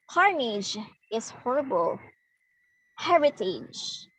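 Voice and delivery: CARnage, HORrible, HERitage, each leaning on its first syllable; dactyl stress pattern. Shown as a demonstration. Teacher demonstrating dactyl, stressed first then unstressed. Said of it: "sound like that".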